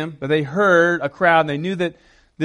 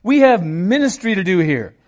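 exasperated, higher-pitched scolding; irritated telling-off; 4 semitones higher, 4 dB louder than usual. Acted. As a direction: shush them like an irritated disciple. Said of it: "they start telling him".

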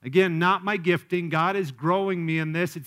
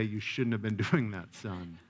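softer, lower parental correction; gentle reproof; 8 semitones lower, 7 dB quieter than usual. Acted. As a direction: tell the child off gently, voice dropping away. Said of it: "And then you can say".

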